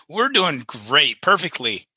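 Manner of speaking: slow, mock-cheerful sarcasm; drawn out, ironic reassurance; sarcastic. Joking they lie on podcast.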